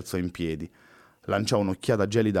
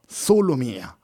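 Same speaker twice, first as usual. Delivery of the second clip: proud echo; 5 semitones higher, 4 dB louder, much slower than usual. Acted. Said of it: "esclamò Louise pieno di orgoglio".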